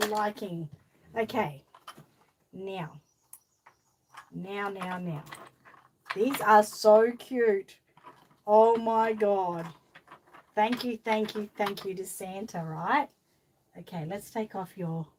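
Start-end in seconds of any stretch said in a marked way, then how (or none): 6.1-9.7 gushing. Real, not acted. Gushing over cute skates.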